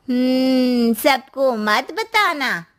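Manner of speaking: slow, lightly voiced aunty caution; aunty slowly warns Shweta to tell no one; knowing aunty warning. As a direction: warn her slowly as the aunty.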